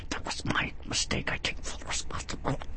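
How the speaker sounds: forced whisper through gritted teeth; through clenched teeth. Shown as a demonstration. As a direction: grit your teeth and whisper it. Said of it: "I say that through clenched teeth".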